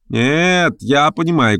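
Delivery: high, eager contradiction; crying out. A narrator's reading. Third guest contradicting the others, crying out. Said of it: "крикнул третий".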